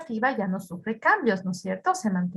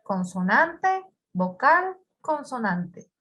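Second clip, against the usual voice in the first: slow spelling out; much slower than usual. Shown as a demonstration. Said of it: "Termina en".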